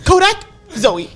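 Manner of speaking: high, slow, laughing starstruck voice; retelling her cousin meeting a rapper, giddy; excited little cousin. Retold or imitated. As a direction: gush like a starstruck kid.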